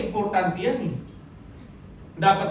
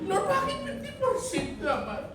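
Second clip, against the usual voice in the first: higher, whiny complaint to God; mock whining prayer. A believer grumbling to the Lord, high and mock whiny. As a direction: whine like a spoiled child asking God why. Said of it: "mock whining at God".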